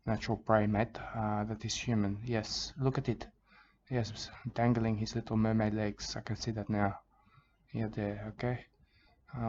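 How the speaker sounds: a croc-hunter parody crooning soothing nonsense; mock Australian wildlife host. Parody host soothing viewers while chasing a tiger shark, in a mock Australian accent.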